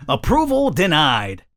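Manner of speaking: slow, measured machine announcement; card machine voice. Acted. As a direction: draw it out like an automated refusal. Voicing the card machine's message.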